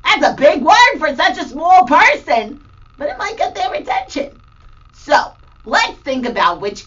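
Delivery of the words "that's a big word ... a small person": mock surprise. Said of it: "they might be like".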